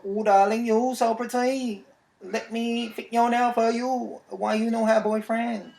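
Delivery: high, drawn-out mock Asian accent. Nail salon worker chatting up a customer, mock Asian accent. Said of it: "when you do an Asian accent".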